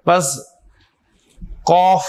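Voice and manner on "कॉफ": कॉफ with a small pouch in the mouth, vowel rounded; rounded qaf. Shown as a demonstration. Teacher repeating the letter for students, rounded pronunciation. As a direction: puff the mouth a little on कॉफ. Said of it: "थोड़ा सा pouch".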